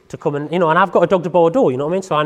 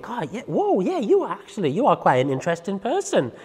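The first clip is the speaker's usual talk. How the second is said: dog's thoughts; 4 semitones higher than usual. Acted. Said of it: "This is what your dog is gonna be looking at you like".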